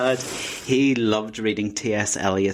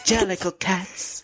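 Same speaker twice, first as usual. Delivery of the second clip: dramatic announcement; 9 semitones higher, slower than usual. Acted. Announcing the musical title.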